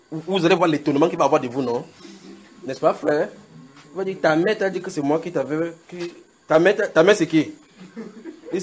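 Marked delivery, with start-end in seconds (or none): 4.2-7.5 mock astonished stranger. Voicing stranger questioning son.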